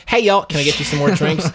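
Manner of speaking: put-on light Southern accent; a hint of Southern waiter. Waiter mimicking the table's accent, lightly Southern. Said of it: "like, a Southern table".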